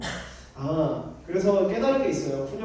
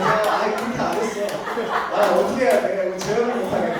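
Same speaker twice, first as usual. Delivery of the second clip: real laughing protest, louder; flustered laughing; 3 semitones higher, 6 dB louder than usual. Real, not acted. Speaker failing to reenact the gentle voice for listeners, flustered laughing. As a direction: laugh through an embarrassed self-defence.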